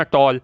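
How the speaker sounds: टॉल in one unbroken beat. Shown as a demonstration. Teacher showing a one-syllable word, said in one go. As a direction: say टॉल straight through without stopping. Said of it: "बीच में आप रुके नहीं हैं".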